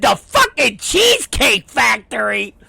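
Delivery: disbelieving repeat, rising at the end; incredulous echo. Retold or imitated. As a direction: throw his words back in disbelief. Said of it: "I said".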